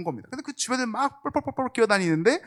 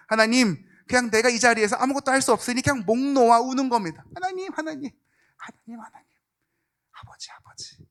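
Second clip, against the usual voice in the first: crying prayer; 5 semitones higher than usual. Acted. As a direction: pray as if sobbing, dying to a whisper. (목 놓아 울며 기도하듯)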